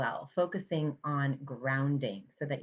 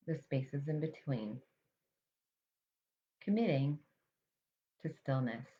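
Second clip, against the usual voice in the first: guided mindfulness meditation. Real, not acted. Meditation teacher guiding listeners to notice their breath, calm and measured. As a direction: calmly guide them to the breath, leaving space between phrases.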